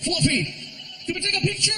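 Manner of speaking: high eager fan asking; excited fan. Retold or imitated. Fan asking comedian for a photo, high eager voice. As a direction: ask it like a starstruck fan. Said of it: "people are walking by".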